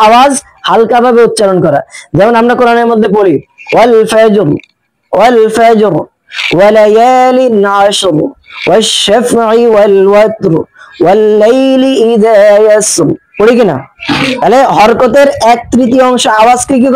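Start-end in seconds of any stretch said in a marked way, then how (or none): 3.7-13.1 slow melodic Quran chanting; slow tajweed recitation of Al-Fajr; Quranic recitation. Shown as a demonstration. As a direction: recite Al-Fajr in a measured tune.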